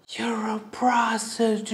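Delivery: slow, whispered inner thought; thinking it in a stunned whisper. Retold or imitated. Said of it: "in my mind".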